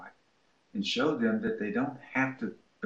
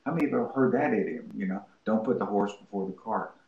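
quick quiz. Retold or imitated. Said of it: "and say".

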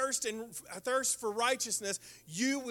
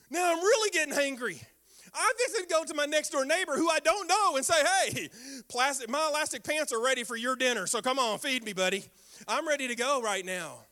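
hangry; 3 semitones higher, 4 dB louder than usual. Retold or imitated. Growing hangry retelling.

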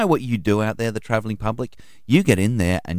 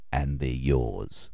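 mimicking the instructor; 9 semitones lower, 8 dB quieter, much slower than usual. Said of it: "He said".

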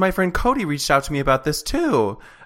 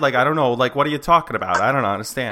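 Boston accent; 4 dB louder, faster than usual. Shown as a demonstration. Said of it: "Does anyone do a Boston accent?".

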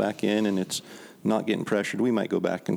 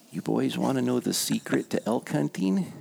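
put-on drunk bum voice; 4 semitones higher than usual. Drunk bum offers hunters his secret, conspiratorial. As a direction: lean in like sharing a big secret. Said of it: "And he said".

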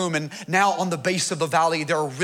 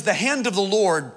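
scripture reading. Acted. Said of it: "It says".

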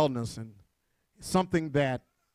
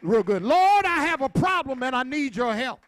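raised pitch, driving sermon delivery; fervent preaching; 5 semitones higher, 4 dB louder than usual. Real, not acted. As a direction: preach it out to the congregation, stretching key words.

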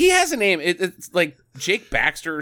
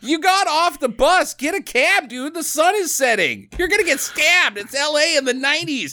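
higher, worked-up advice shouted at the screen; mock warning to hero; 8 semitones higher than usual. Host mock-warns the hero walking LA at dusk, higher and worked up. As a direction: warn the character he's about to get stabbed.

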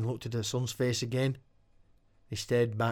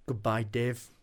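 warm and caring. Acted. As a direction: say it tenderly before the kill. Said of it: "The words warm and caring".

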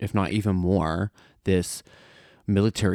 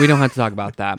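laughing; 2 semitones higher, 6 dB louder, much faster than usual. Real, not acted.

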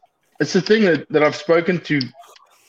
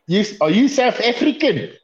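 higher, laughing put-on voice; playful mock questioner, raised pitch; imitating the question; 9 semitones higher than usual. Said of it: "It was like".

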